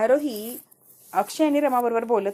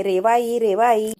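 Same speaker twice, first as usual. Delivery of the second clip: moderately raised calling voice; mock yell; 5 dB louder, much slower than usual. Child arrives home calling out, mock yell. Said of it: "जोरात किंचाळते".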